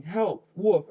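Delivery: loud cry for help, rising; the girl running from the wolf, calling out loud; shouting for help. Acted. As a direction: yell it out as loud as you can. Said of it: "as loudly as she could".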